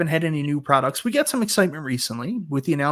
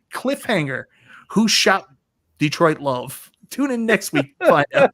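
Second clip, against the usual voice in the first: louder, higher teaser voice; TV announcer; 3 semitones higher, 4 dB louder than usual. Pretend. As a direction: hype it like a soap promo. Mock TV cliffhanger.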